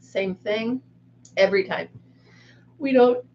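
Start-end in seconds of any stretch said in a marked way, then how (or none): 2.8-3.2 talking through a yawn; words stretched by a yawn. Real, not acted. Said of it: "I don't know why I'm yawning".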